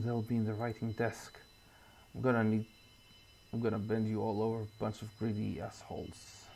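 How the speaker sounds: a hint of a gruff, paranoid writer on the phone; lightly voiced Walter. Player voicing Walter arguing on the phone, lightly gruff. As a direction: play it hushed and defensive.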